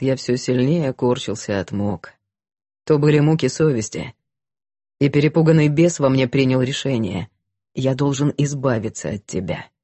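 low, somber confessing voice; a guilty man baring his soul; repentant man. Acted. Гэвин продолжает исповедь. (кающийся мужчина, низкий голос)

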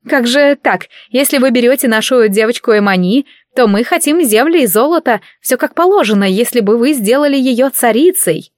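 lightly voiced queen bargaining for gold; indignant mother. Mother haggles over daughter's dowry.

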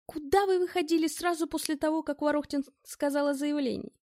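a touch of cold menace; deadly voice. Acted. Bell interrogates Ed, lightly menacing. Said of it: "убийственным голосом".

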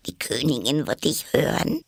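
alarmed, urgent whisper; frightened whisper. A narrator's reading. Rabbit warning Alice about the Queen, frightened whisper. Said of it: "flüsterte das Kaninchen sehr erschreckt".

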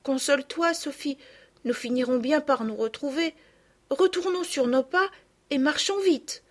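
put-on reassuring girl. A narrator's reading. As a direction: reassure a friend while worried yourself. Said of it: "chercha à la rassurer". (fillette qui veut rassurer)

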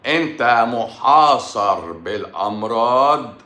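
slow, stretched-out emphatic delivery; drawn-out warning. Real, not acted. Warning a viewer he is besieged by illness, slow and emphatic. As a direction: draw every word out as a warning. Warns viewer of diseases on all sides.

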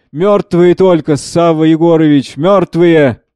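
slow, drawn-out acted cry; despairing cry. Speransky answers who can know, crying despairingly. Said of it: "С отчаянием кричит".

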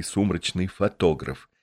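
usual speaking voice

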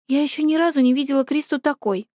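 ordinary delivery, nothing marked

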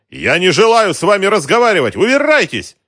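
very high and loud outburst; furious shout. Acted. Shopkeeper screams at the racketeer, furious. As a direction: scream him out.

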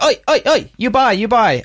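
high-pitched, badly faked German waiter; bad German accent. Waiter stopping a customer heading to the bathroom, bad German accent.

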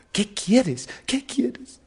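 high, baffled questioning; astonished king. Acted. King asking the simpleton who refuses everything, acted high astonishment. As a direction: demand it in rising astonishment. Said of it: "el rey, asombrado".

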